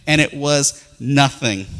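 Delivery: slow deliberate "and it was nothing"; "and it was nothing" said slowly for effect; slow punchline. Shown as a demonstration. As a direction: let it land slowly. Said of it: "repeated punchline".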